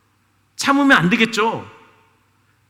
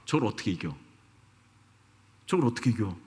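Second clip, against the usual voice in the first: low, soft inner muttering, lightly acted; hushed mock inner voice of a frightened soldier; muttering to oneself; 10 semitones lower, 10 dB quieter than usual. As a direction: mumble it in despair under your breath. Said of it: "아마 속으로 그렇게 생각했을 거예요".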